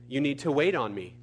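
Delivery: lightly voiced steady God; God's calm reply. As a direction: state it evenly and quietly, like a patient correction. God's reply in acted dialogue.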